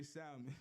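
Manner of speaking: "salmon" with the L voiced, as said in the hood; hood-style salmon. Shown as a demonstration. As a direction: say "salmon" as SAL-min, L pronounced. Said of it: "We from the hood".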